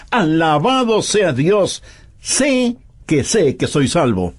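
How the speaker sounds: slow, ringing exclamation, leaning on alabado; confident praise. Pastor voicing a sure believer to the congregation, slow and ringing. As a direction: proclaim it upright like an exclamation mark. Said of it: "como un signo de admiración totalmente erguido".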